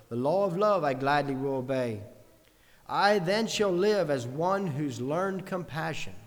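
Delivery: deliberate pulpit recitation of a verse; reciting hymn lyrics. Acted. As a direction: declaim each line with measured conviction. Recites song lyrics as a reading.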